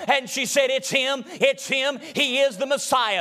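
chanted, musical preaching at full force. Acted. Preacher telling the congregation about Magdalene, sung and rhythmic. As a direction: whoop the story of Mary like a revival sermon. Whooping sermon over organ music.

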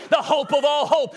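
ordinary talk, nothing marked

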